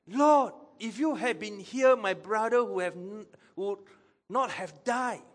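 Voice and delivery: high, loud, lightly angry reproach. Acted. Sister reproaching Jesus over her brother's death, angry tone. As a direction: protest it high and forceful. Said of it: "Maybe one was an angry tone".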